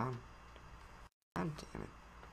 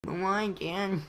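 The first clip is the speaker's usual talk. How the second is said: higher, pleading little son; whiny son voice; 6 semitones higher, slower than usual. Acted. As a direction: play the hurt kid asking dad.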